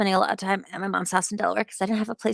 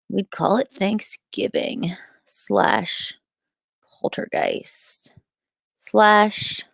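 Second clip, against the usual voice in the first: whisper; much slower than usual. Real, not acted. Whispered joke punchline.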